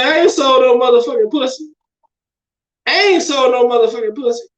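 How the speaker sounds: imitating that boy, belting it out; mock quote. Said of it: "That boy say".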